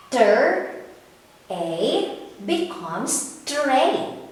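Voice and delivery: slow sounding out, then "tray" said whole; blending sounds. Shown as a demonstration. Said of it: "Read it with me, kids".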